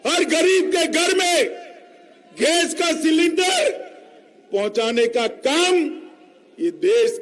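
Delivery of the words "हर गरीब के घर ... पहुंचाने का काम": shouting. Real, not acted. Rally speech, crowd roused.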